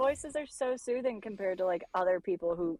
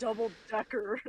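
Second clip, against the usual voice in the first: imitating British accent; 3 dB quieter than usual. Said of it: "you were like".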